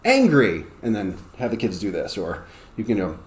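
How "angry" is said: higher, punchy word call; sudden classroom call. Shown as a demonstration. Teacher springs a word on the kids, a bit higher and firm. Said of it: "you can just be like".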